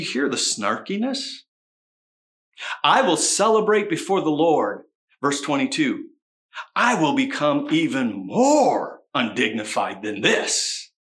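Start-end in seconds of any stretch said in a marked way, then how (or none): 2.8-4.8 defiant sarcastic boast; snarky, louder declaration; sarcastic reading. Shown as a demonstration. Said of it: "I'm gonna read it sarcastically". 6.7-10.9 slow, snarky boast; drawn-out sarcastic vow; sarcastic reading. Shown as a demonstration. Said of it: "I'm gonna read it sarcastically".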